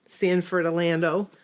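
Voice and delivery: lightly voiced old person. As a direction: say it like an elderly local. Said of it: "You said it like an old person".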